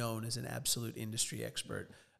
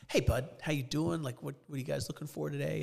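cheerful store clerk; 3 semitones higher than usual. Retold or imitated. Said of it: "they're always so cheerful".

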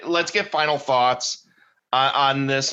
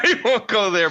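high laughing voice, a bit stretched; real chuckling aside; 8 semitones higher than usual. Real, not acted. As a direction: push the words out through a laugh. Finishing the aside while laughing.

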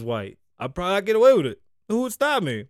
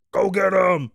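mock battle cry, a bit louder; briefly raised, jokey order; mock command; 5 dB louder than usual. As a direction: send the bees on the attack. Acts out commanding the bees.

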